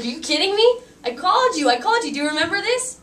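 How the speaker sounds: high, loud mock shriek; half-laughing retold scream; 1 screaming excitement. Retelling her phone call to the bride, a loud excited shriek. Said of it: "I was like".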